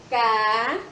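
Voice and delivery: "Ca-" loud and long, as a lone syllable. Shown as a demonstration. Teacher prompts children for the next syllable, holding "Ca-" out on its own. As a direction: stretch out "Ca-" and stop. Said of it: "três sílabas".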